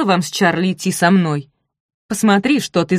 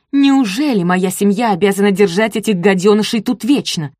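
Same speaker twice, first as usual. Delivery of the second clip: higher, louder furious complaint; angry rant; 4 semitones higher, 6 dB louder than usual. A narrator's reading. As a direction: vent your fury at him. Kidnapper woman rants angrily. (злая тирада похитительницы)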